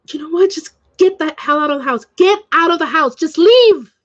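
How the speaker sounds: re-enacted angry outburst; imitated screaming. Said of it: "But she is screaming".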